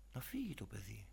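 breathy hushed whisper of the tempter; whispered temptation. Acted. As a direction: whisper it like a sly inner voice. Voices the tempting thought.

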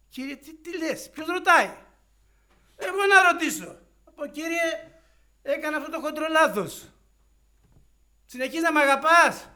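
a stunned disciple begging forgiveness; overwhelmed Peter. Acted. Peter's stunned emotional answer. (συγκινημένος, απεγνωσμένος Πέτρος)

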